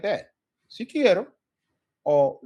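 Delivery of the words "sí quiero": loud, high eager sí quiero; eager yes. Shown as a demonstration. Teacher modeling a keen reply to coffee, loud and high. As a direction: say yes with enthusiasm. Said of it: "We could answer that".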